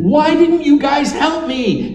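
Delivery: a retold flash of irritation; mock angry complaint. John on the boulder, scolding friends who didn't help, mildly angry. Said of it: "we discovered he was mad".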